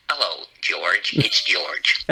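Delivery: a hint of George on the line; mock George voice. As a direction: answer the phone as George, lightly voiced. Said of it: "I always say".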